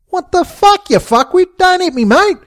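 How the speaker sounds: high-pitched outraged protest; indignant protest. A narrator's reading. Victim objects to being hit in the gut, indignant protest.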